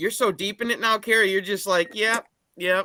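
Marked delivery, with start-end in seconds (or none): 1.9-2.8 mock casual, nonchalant tone, higher. Imitating another speaker reacting to carnivore results: imitating someone sounding nonchalant. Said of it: "Just nonchalant about".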